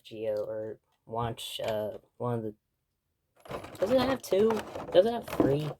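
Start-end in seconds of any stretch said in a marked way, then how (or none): 3.8-5.7 high-pitched wondering. Real, not acted. Unsure recollection, high pitch.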